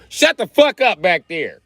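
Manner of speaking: mock teacher scolding. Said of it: "Black teacher be checking shit".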